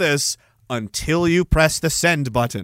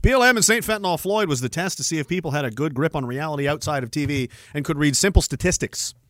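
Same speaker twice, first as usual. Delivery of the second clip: reading a comment; 3 semitones lower, 5 dB quieter than usual. Retold or imitated. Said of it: "He says".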